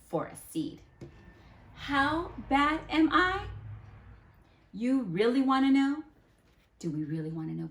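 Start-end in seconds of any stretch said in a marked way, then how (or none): 1.8-6.0 higher, louder teasing villain voice; taunting villain. Acted. The bad seed taunting the children, mock villain voice. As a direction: tease them like a proud villain.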